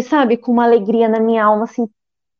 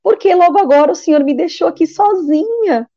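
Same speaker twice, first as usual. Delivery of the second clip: higher-pitched retold cry of abandonment; tearful pleading; 5 semitones higher than usual. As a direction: reenact an anguished, questioning plea to God. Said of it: "comecei a chorar".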